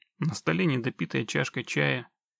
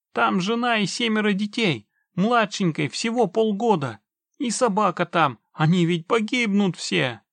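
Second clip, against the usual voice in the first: high, loud, urgent imploring; desperate begging; 7 semitones higher, 5 dB louder than usual. A narrator's reading. Man begs witcher for wife and children, desperate pleading. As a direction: plead for the family's lives. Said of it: "человечек принялся умолять".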